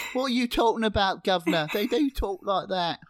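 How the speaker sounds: teasing English accent, hammed up; mock posh British accent. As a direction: put on an over-the-top British accent.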